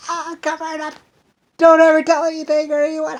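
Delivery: high, loud secretive voice; imitating descendants. Descendants urging secrecy, in a high put-on voice. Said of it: "their children's children are gonna be like".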